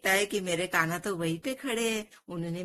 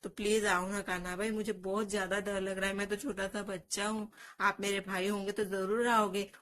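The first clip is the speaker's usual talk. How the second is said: pleading cry; 3 semitones higher than usual. Acted. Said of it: "रोने लगता है और जोर से बोलता है".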